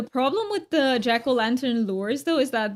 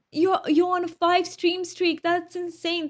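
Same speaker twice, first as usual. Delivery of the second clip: amazed; 7 semitones higher than usual. Real, not acted. Chatter's five stream streak.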